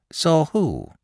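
high, mildly alarmed wife; a touch of shared fright in the question; nervous terror. Acted. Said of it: "beginning to share in her husband's nervous terror".

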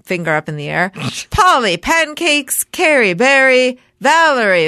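political sing-song voice. Pretend. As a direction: read the names like a politician at a podium. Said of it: "in my political sing-song voice".

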